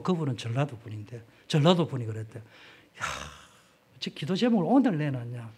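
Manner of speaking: usual speaking voice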